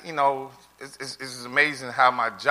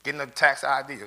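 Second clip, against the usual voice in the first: higher, lightly voiced teasing wife; a hint of the wife teasing him; wife's teasing voice; 5 semitones higher than usual. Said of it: "she said".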